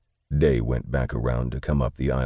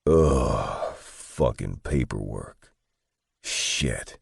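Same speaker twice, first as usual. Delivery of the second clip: groaning; 3 semitones lower, much slower than usual. A narrator's reading. God groaning at all the paperwork, grumbling slowly. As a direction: groan it slowly, fed up with the task. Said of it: "God groaned at all the papers".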